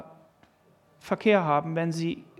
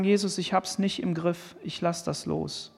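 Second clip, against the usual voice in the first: softer, trailing prayer of letting go; surrendering prayer; 2 semitones lower, 5 dB quieter than usual. Pretend. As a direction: hand it over to Jesus, quietly. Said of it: "dass wir sagen".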